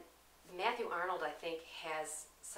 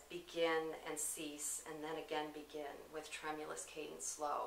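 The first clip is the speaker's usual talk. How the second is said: wave-like cadence. Shown as a demonstration. Showing the poem's sound of waves, cadenced reading. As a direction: let it rise and fall like tide. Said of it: "the rhythm and the cadence of".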